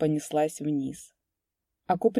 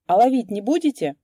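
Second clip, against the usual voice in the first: cheerful question; 5 semitones higher, 7 dB louder than usual. A narrator's reading. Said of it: "весело спросил".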